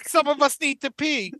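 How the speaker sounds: mock polite desperation; waiting passenger. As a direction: plead through a bathroom door. Acting passenger outside occupied bathroom.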